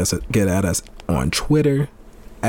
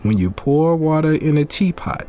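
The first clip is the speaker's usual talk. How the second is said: bad Asian accent. Host reading Bruce Lee quote in a mock Asian accent. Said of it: "That accent was terrible".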